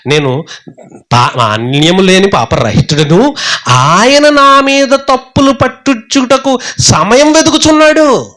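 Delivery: high, slow self-righteous whine; a hint of a whining Job; mocking Job. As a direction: mimic Job's pious protest, drawn out and high. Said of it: "యోబు అన్నాడు".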